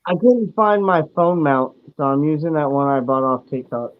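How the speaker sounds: muffled, hollow phone audio; echoey voice through the phone mic; bluetooth headset mic. Real, not acted. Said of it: "sounds like you're talking through a glass jar".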